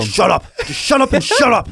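rising to a high, mocking snap; mock influencer. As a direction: shut him down, hammed-up. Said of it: "acted influencer's retort".

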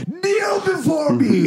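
slow booming villain command. Pretend. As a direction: bellow it like a conquering overlord. Mock General Zod command.

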